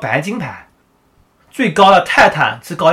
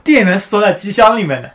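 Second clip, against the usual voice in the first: awkward laugh; 3 semitones higher, 4 dB louder than usual. Real, not acted. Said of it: "好尴尬".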